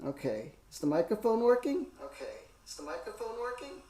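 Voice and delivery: crazy voice. Pretend. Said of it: "That's my crazy voice".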